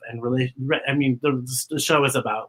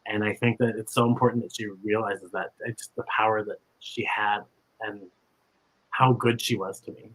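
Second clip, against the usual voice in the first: real emotion, voice dropping softer; getting emotional; 4 semitones lower, 4 dB quieter than usual. Real, not acted. Thanking her old teacher, quietly choked up. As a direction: hold back tears as you thank her. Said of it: "I know I'm gonna get emotional".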